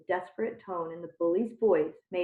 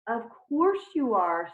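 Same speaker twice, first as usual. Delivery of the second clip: soothing; 4 semitones higher, 3 dB louder, slower than usual. Acted. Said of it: "soothed Mister Jupiter".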